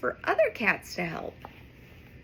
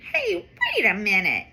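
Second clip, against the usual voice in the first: realizing; 3 semitones lower, 5 dB louder, faster than usual. Acted. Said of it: "Streaky thinks out loud".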